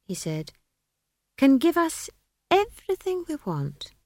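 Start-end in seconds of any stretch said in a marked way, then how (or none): 1.4-3.9 high, rapt wizard voice; grand, high-pitched promise; lofty wizard. A narrator's reading. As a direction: savour the grandeur of magic. Wizard extols high magic.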